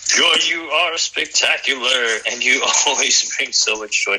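beam with delight at her; gushing praise. Real, not acted. Host gushing over speaker.

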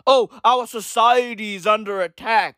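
a hint of a fussy French voice; mock whiny Frenchman. Mocking French critics, a lightly fussy whine. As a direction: play a fretful French official.

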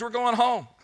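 high, elated cry of good news; excited. Acted. Freed captive telling the doubters the news, excited. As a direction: announce it with rising joy. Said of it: "what's all the excitement about".

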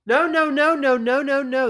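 loud, high string of no; emphatic denial. Retold or imitated. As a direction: protest hard, rising to the top. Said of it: "I was like".

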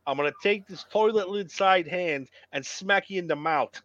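lightly imitated bad New York accent. Co-host recalling a wrestler's famous line, bad New York accent. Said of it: "A little bad New York accent".

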